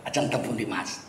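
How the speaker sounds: soft, low Javanese accent; polite Javanese villager asking, in a Javanese lilt. Shown as a demonstration. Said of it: "Itu mesti logat Jawa".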